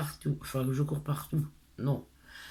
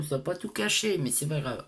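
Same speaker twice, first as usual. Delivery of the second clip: slushy lisped s sounds; speaking with a lisp. Real, not acted. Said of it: "ça m'énerve comment je parle".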